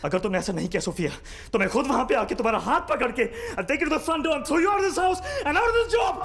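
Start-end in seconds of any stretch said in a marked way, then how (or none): 1.5-6.1 angry shout. Acted. Master threatening to throw his nurse out, angry shout. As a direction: blow up at her.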